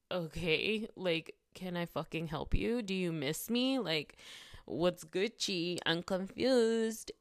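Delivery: loud, drawn-out sarcastic sass; mock him, slow and snotty; sarcastic mockery. Woman mocking the officer who called at 3:30 am, slow loud sarcasm.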